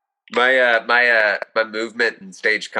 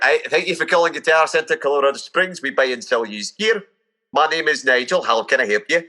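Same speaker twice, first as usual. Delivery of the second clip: put-on Scottish accent; 5 semitones higher than usual. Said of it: "Oh, Scottish for sure".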